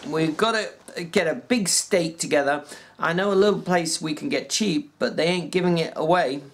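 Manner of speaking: a lightly voiced ranch hand, plain and steady; George, a working man. George telling Lenny about the farm, lightly voiced.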